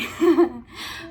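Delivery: short burst of giggling; real giggle. Real, not acted. Vlogger amused by her own fumble, giggling. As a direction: let another laugh slip out. Still laughing at her slip.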